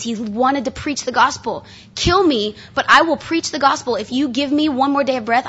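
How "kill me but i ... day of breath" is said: raised, emphatic martyr's challenge; higher-pitched fervent defiance, acted out. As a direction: declare it boldly, as if facing persecutors. Voicing Paul's defiance to persecutors.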